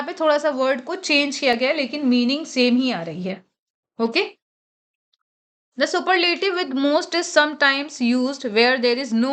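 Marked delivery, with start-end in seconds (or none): 5.8-9.3 slow, careful reading of the rule; teacher reading out a grammar rule; rule read aloud. Acted. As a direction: read the textbook line slowly. Reads rule text slowly.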